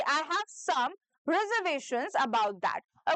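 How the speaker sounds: slow, every word clear; slow dictation. Shown as a demonstration. A teacher dictating slowly for students to repeat. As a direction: let each syllable of "reservations" land. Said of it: "उसको repeat करिए".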